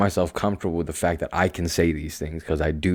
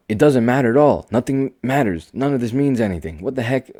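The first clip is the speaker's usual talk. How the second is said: excited realization; 6 semitones higher, 4 dB louder than usual. Real, not acted. Realization burst, raised voice.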